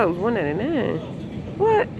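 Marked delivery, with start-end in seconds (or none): 1.6-1.9 surprised. Real, not acted. Sees the price of jam.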